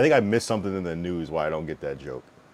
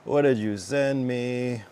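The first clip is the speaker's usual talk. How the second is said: higher and slow, baffled; drawn-out bewildered question; puzzled exclamation; 7 semitones higher, 4 dB louder, much slower than usual. Real, not acted. Asking a viewer about their clip, baffled and drawn out.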